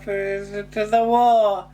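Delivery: hammed-up drawn-out rising line; James Bree impression. Imitating the actor's weird performance, hammed up. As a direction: mimic his strange stately delivery.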